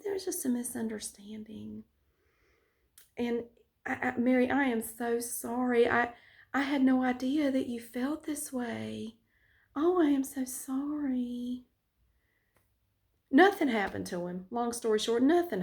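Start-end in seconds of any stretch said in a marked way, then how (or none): 4.2-11.6 fake apology. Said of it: "laying on the bullshit".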